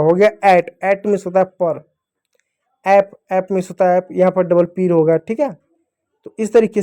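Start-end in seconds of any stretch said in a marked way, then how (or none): 0.4-0.7 "ऐट" with open ऐ and a closing ट; ऐ sound in ऐट. Shown as a demonstration. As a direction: say "ऐट" starting on an open ऐ. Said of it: "ए का उच्चारण ऐ के रूप में". ("ऐट" में खुला ऐ, फिर ट)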